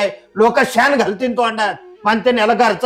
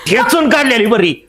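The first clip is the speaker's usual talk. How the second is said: angry rant. Acted. Father rages at daughter.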